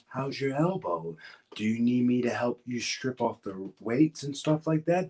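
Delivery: put-on voice imitating a kind colleague; affectionate impression, clearly not your own voice; Lars Sullivan. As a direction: mimic his way of talking, pitch climbing toward the end. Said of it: "That's how he talked".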